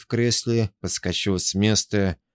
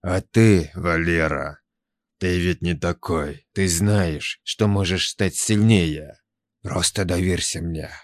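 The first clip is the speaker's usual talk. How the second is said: lightly voiced tempting creature; slow hypnotic serpent hiss. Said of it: "Шёпот становился всё настойчивее".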